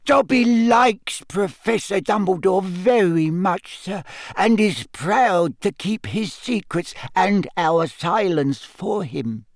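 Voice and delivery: loyal little elf; house elf voice. Acted. Dobby elf voice.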